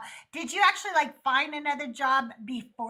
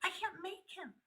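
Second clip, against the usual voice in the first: exasperated insistence; 4 semitones higher than usual. Retold or imitated. Wife insisting to in-laws she doesn't control her husband, exasperated. Retells exasperated protest to relatives.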